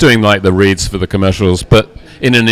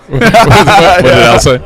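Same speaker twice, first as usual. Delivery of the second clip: announcer voice; 6 semitones higher, 4 dB louder, slower than usual. Pretend. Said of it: "there it is".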